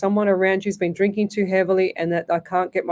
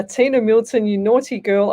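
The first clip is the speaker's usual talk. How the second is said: teasing tut-tut, a bit louder; mock scolding; 2 semitones higher, 4 dB louder than usual. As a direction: playfully scold a cheeky viewer. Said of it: "I am not saying what you just wrote".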